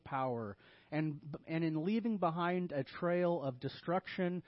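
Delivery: mock-earnest sermon advice; deadpan sarcastic exhortation; tongue-in-cheek. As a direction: sell the destructive path as noble counsel. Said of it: "Tongue in cheek here".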